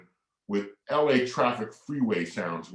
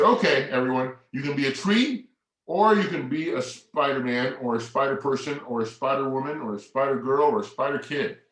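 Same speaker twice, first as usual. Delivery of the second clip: put-on teacher addressing kids; 2 semitones higher than usual. Addressing sixty children.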